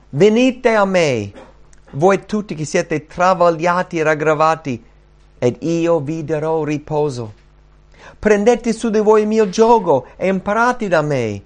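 ringing, measured appeal; proclaimed invitation. Acted. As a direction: call out Jesus' invitation to the congregation. Preacher reading Jesus' call aloud.

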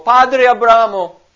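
loud, high pleading cry from torment; preacher voicing the rich man's anguished plea; rich man exclaiming. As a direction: beg Father Abraham from the flames, loud and high. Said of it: "esclamò".

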